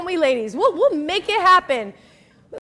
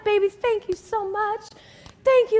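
gushing thanks; 3 semitones higher than usual. Acted. Gushing wife thanks husband.

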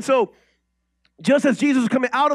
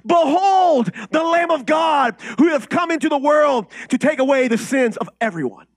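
loud, high preacher's proclamation; proclaiming shout; 4 semitones higher, 4 dB louder than usual. Acted. Pastor proclaiming scripture to the congregation, loud and high. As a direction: call it out to the whole church.

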